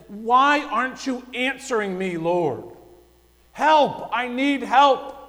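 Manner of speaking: a pleading shout to the Lord; desperate cry. Retold or imitated. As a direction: cry out for rescue. Preacher voicing the desperate psalmist.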